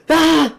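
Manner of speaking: loud high yell; reenacted scream. Charging the death wall, a loud high scream. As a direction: let out a battle scream. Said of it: "I just fucking screamed".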